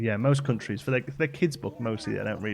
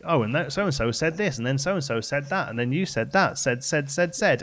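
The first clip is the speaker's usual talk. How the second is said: mocking dull book; 3 semitones higher than usual. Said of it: "I hate the word said".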